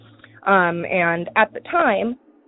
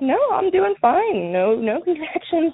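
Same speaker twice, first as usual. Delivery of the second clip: much higher, easygoing phone voice; retold reassurance; 8 semitones higher than usual. Pregnant sister telling family on the phone she's fine, reassuring. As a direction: lightly imitate a sister brushing off worry.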